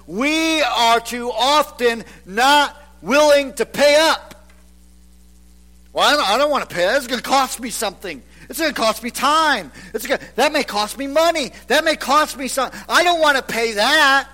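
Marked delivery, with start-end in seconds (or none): 5.9-14.3 fast, grudging mock complaint; mildly mocking a stingy believer; reluctant whiner. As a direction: whine like someone who won't pay. Voicing reluctant churchgoer.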